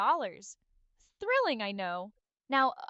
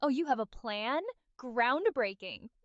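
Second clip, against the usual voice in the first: sarcastic. Acted.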